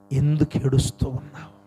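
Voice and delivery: lightly voiced Lord, pitched low; voicing the Lord. The Lord asking a weeping listener, lightly voiced, low. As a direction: ask it low, as if relaying the Lord. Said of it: "ప్రభు నిన్ను అడుగుతున్నాడు".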